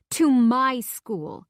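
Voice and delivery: slow and stretched out in panic; alarmed. A narrator's reading. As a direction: let the panic build and drag the words. Rising panic, drawn out.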